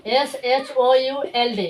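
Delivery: slow spelling out. Shown as a demonstration. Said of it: "क्या पढ़ोगे?".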